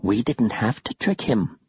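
slow ghostly hush; eerie whisper. Acted. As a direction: whisper the secret slowly. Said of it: "another whispered".

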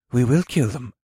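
calm, restrained resolve. A narrator's reading. Red-haired elf answering his angry friend, calmly. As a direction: state it calmly, without heat. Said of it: "the red-haired elf said in a calm voice".

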